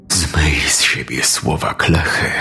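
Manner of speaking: low whispered command from a dark being; whispery demonic order; sinister commanding figure. A narrator's reading. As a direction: hiss the order, low and voiceless. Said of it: "rozkazała postać".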